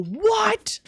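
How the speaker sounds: squeaked-up high what; a sudden high confused what; mock surprise. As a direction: play Justin baffled. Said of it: "Justin's gonna look at that and go".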